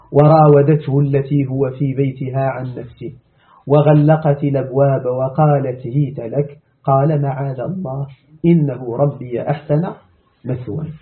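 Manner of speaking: low, measured recital of scripture; Quran recitation. Acted.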